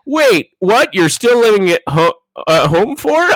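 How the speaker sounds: high-pitched incredulous mockery; mock roasting. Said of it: "he's, like, roasting her now".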